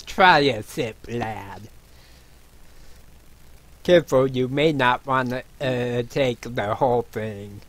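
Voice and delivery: hint of a hearty dwarven brewer; lightly voiced dwarf innkeeper. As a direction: lightly play a dwarf urging a sip.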